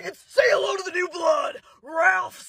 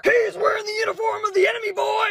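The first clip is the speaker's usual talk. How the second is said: drill sergeant shout. Acted. Drill sergeant yelling at recruit.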